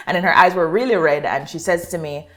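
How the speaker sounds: usual speaking voice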